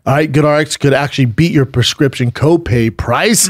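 upbeat sponsor offer, web address drawn out slowly; ad read. Real, not acted. Host giving listeners a mattress deal, ad read. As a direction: sell the deal, then spell out the address slowly.

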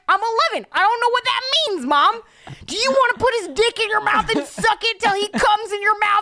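put-on high, loud whiny kid voice; imitating Pete Davidson telling his mom he's gay; Pete Davidson impression. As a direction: play Pete as a whiny eleven-year-old pleading with mom. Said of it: "Let's hear your Pete Davidson".

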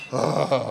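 acted groan of distaste; mock "ugh" of displeasure; disgusted groan. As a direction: groan as if let down by a bad movie. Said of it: "that you were like".

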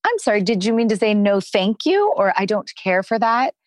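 high, fast, sing-song sweetness; gently teasing high voice to a defiant child; sweet and gentle. Shown as a demonstration. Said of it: "you can very sweetly and gently say".

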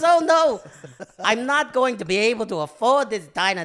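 loud helium-pitched mock panic; botched impression at full squeal; Michael Caine. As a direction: wail it very high and drunk. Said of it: "You just kept taking more helium in".

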